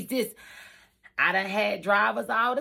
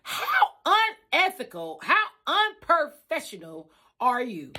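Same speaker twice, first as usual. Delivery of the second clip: high, shocked disbelief; appalled; 4 semitones higher than usual. Retold or imitated. Reacting to the coworker's behavior, high and appalled. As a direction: gasp it out appalled. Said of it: "I'm sitting here like".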